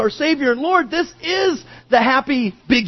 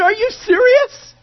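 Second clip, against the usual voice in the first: high, overjoyed cries of delight; excited brother; 7 semitones higher than usual. Retold or imitated. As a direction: burst with joy at the news. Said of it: "we can imagine the brother's reaction".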